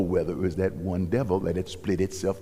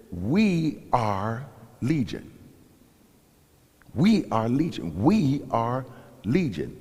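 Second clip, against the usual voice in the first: demon voice; 3 semitones higher, 3 dB louder, slower than usual. Acted. Preacher voicing the demon.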